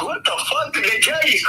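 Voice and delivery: high, amazed what the fuck; can't believe what he's hearing; stunned disbelief. Retold or imitated. Reacting to the cellmate's apology, stunned disbelief.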